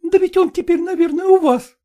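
put-on high, imploring young woman; high-voiced daughter pleading. A narrator's reading. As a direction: beg your father not to make you go.

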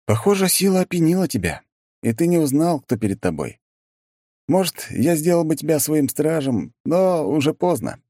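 high, cold triumph; gloating. A narrator's reading. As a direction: savour the victory. Hero gloats over defeated monster.

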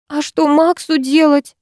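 high, slow tearful wail; lightly voiced crying nanny; nanny breaking into sobs over Max; bursting into tears. A narrator's reading. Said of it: "разрыдалась няня".

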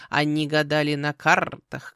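slow, loud croak with rolled r; measured raven. Acted. Raven continuing the lecture to the girl, measured croak. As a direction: lecture like a pompous bird. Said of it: "перебила мерно говорившую птицу".

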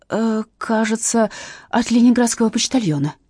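ordinary delivery, nothing marked

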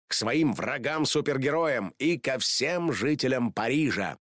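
plain reading voice

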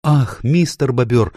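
high, loud dismayed cry; exclaiming. A narrator's reading. Lucy cries out to Mr Beaver in high dismay. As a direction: burst out in alarm. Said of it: "воскликнула Люси".

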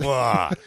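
mock barf. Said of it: "Napoleon drinks it and nearly barfs".

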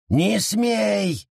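high, sharp shouted order; shouted command. A narrator's reading. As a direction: stop him dead with a shout. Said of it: "велел лес".

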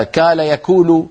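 "كال يكول" with qaf as a hard g, slow; dialect g for qaf. Shown as a demonstration. Teacher imitating a Palestinian dialect qaf. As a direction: slowly say gaal yguul, village style. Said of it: "ما بيصير نقول في القرآن كال يكول".

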